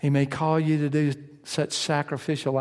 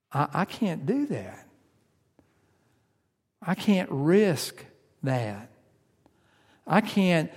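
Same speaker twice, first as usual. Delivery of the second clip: fearful refusal; slower than usual. Retold or imitated. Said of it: "Maybe we're afraid".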